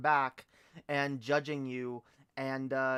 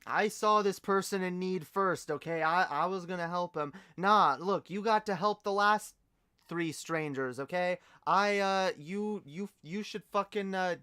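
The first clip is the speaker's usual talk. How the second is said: higher-pitched put-on Canadian squabble; hammed-up Canadian argument; bad Canadian accent; 5 semitones higher, 3 dB louder than usual. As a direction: bicker politely in a fake Canadian accent. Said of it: "do a good Canadian accent".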